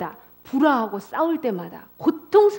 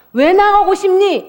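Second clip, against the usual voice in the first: parent asking; 7 semitones higher, 7 dB louder, slower than usual. Retold or imitated. Parent asking child why.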